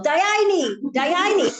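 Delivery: high, playful mock yell; imitating a joyful group shout; imitated family yell. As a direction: cry it out like the whole table. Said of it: "they're all yell".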